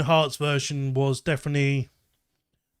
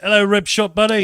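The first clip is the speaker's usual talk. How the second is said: excited greeting; 6 semitones higher, 7 dB louder than usual. Real, not acted. Greets viewer joining chat.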